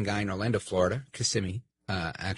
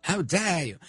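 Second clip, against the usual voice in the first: Greta Thunberg impression; 3 semitones higher than usual. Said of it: "like Greta Thunberg".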